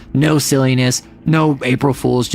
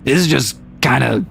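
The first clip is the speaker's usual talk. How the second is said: a lower voice with some gravel in it; casual demo of a gravelly lower register; 3 semitones lower than usual. Shown as a demonstration. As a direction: drop down and let it rasp a little. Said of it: "a lower voice that has some gravel to it".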